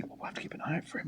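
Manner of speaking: rapid, hushed whisper; fast whisper. Acted. Spectator gossiping fast in a whisper. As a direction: rush it out under your breath.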